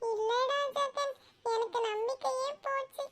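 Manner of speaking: subdued and discouraged; dejected. Acted. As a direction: confess it quietly, hope draining away. Confides lost hope to his friend.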